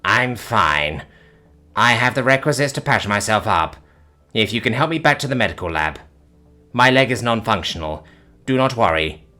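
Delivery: utterly unfazed, matter-of-fact; calm. Acted. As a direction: alien calmly dismissing his injury. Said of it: "the Vaskar said calmly".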